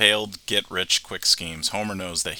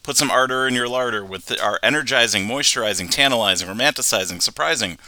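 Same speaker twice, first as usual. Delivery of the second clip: a hint of a carnival barker; lightly hammed sales spiel; chirpy trade show pitch; 3 dB louder than usual. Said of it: "I actually did write down his entire, um, little speech".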